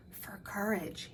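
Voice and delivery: soft, slow whisper to a grandchild. A narrator's reading. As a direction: hush it tenderly, slowly. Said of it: "he whispered".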